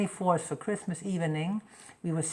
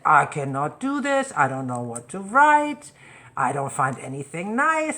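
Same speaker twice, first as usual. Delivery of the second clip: put-on protesting teen; 7 dB louder than usual. Teen son protesting loudly.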